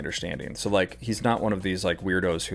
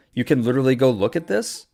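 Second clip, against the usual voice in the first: angry outburst; 5 semitones higher, 4 dB louder than usual. Real, not acted. Streamer berating a chatter.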